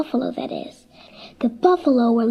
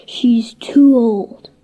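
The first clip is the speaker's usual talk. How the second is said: grumbling bull; 3 semitones lower, 4 dB louder, much slower than usual. Acted. Resentful bulls grumbling in private.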